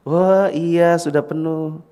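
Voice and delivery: softened, lilting caregiver voice; tender baby talk; cooing to baby. Acted. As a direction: imitate gently soothing an infant.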